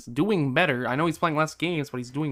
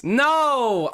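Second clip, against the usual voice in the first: high, drawn-out wail of no; anguished cry; 11 semitones higher, 4 dB louder than usual. Real, not acted. Gamer watching a must-win game slip, anguished cry. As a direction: cry it out as the game slips away. Game slipping away in playoffs.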